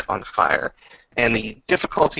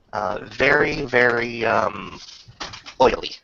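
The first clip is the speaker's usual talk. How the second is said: game master narration. Acted. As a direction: relish the gross detail. GM narrates monster effect.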